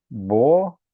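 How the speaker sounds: "Bocaiúva" loudly split bo... cai... Ú-va; long pauses in "Bocaiúva", cai kept whole before U; diphthong, then U. Shown as a demonstration. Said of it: "O U também tá depois de um ditongo". ("Bocaiúva" separado: bo... cai... úva)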